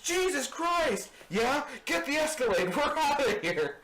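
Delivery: high, loud excited getaway cry; high loud cartoonish getaway shout; Family Guy Jesus. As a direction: hype it up like a cartoon Jesus fleeing. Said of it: "that Family Guy sketch".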